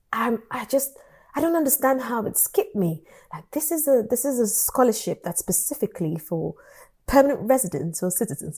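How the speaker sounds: imitated hesitant British accent; softly put-on British supervisor voice. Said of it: "British with my travel accent".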